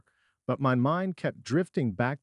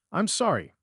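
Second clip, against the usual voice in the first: sobbing apology; 7 semitones higher than usual. A narrator's reading. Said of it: "sobbing now".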